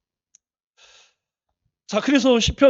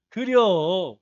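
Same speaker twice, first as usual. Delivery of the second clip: Chungcheong dialect; 3 semitones lower, much slower than usual. Shown as a demonstration. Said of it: "충청도에서는 D를 이렇게 늘려주는 게".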